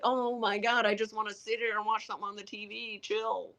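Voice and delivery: mock weary plea. Retells own weary plea to energetic partner.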